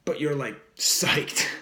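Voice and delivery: laid-back surfer dude talk; like an eighties surfer. Real, not acted. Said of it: "I sound like an eighties surfer".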